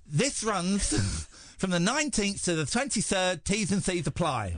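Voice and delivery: giggling while reading the ad; breaking up mid-read; laughing through the read. Shown as a demonstration. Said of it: "without the soggy end".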